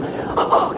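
soft, breath-only gasp; mock gasp of someone overwhelmed; imitated shaken gasp. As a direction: act out a shaken intake of breath. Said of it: "kinda goes".

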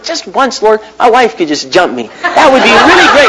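mock prayer. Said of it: "I said".

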